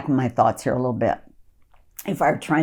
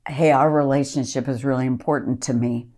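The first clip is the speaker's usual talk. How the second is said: gentle opener. Shown as a demonstration. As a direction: ask it gently, so they don't get defensive. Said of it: "I would say something like this".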